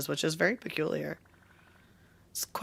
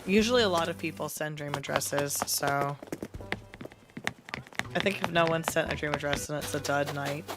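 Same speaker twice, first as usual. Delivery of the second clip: raspy sick voice. Real, not acted. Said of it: "my raspy, sick voice".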